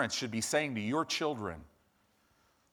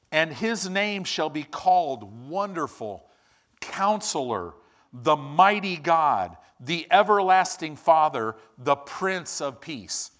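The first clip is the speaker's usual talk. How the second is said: scripture reading; 4 dB louder than usual. Acted. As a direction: build the titles up with reverence, then settle. Reading Isaiah aloud.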